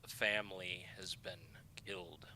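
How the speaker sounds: whispered, fading report to his lord; hushed elf report. Acted. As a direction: breathe the bad news to your master. The elf says.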